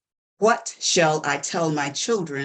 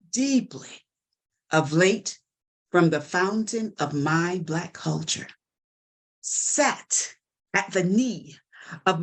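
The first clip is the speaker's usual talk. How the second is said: measured, dramatic recitation with deliberate pauses; poem recital; 3 semitones higher than usual. Acted. Mother asking what to tell her Black children, dramatic poem recital. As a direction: recite it in weighty phrases, building in emphasis.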